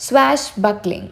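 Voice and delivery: "Swashbuckling" slowly, falling at the end; drawn-out teaching take of "Swashbuckling"; pronunciation demo. Shown as a demonstration. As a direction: model "Swashbuckling" for learners. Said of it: "ഇത് pronounce ചെയ്യാൻ പ്രത്യേകിച്ചൊന്നുമില്ല".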